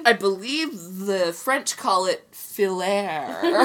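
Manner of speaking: slow mock-highbrow pronouncement; mock posh. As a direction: say it slowly like a connoisseur.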